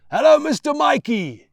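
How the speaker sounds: loud, high cheerful greeting; hearty yelled greeting; yelling. Acted. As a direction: shout a joyful welcome. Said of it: "he yells".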